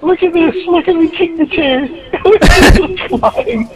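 high, gleeful yelling; excited shouting. Real, not acted. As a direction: shriek with delight. Gleefully kicking chairs in game.

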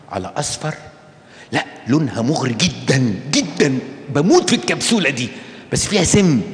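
hammed-up delight over a pretty capsule; mock gushing girl. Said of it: "يعني انت بتقولي".

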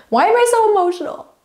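high, loud embarrassed squeal with a laugh; laughing at her own tears. Real, not acted. Vlogger laughing at herself for getting teary, high and loud. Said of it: "annoyed at myself for getting teary-eyed".

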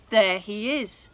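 a loud, pointed accusation; accusing queen. Acted. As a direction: point him out firmly. Esther accuses Haman.

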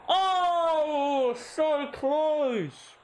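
long, high, loud wail; agonised near-miss cry. Real, not acted. Narrowly missed goal.

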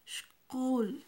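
Shkul with sh then kul, loud and clear; Mam word, clearly modelled. Shown as a demonstration. Teacher models the Mam word for blue, loud and clear. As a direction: model Shkul for students to echo. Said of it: "Pasamos al siguiente".

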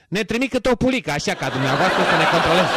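cracking up mid-line as the rabbi; laughing through the punchline. Acted. Rabbi answering the tax inspector, breaking into laughter. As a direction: laugh out the punchline you can't hold in.

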